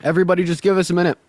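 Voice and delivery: talking through a mouthful of burger; words round a bite of food; chewing while talking. Real, not acted. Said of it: "I'm chewing a burger".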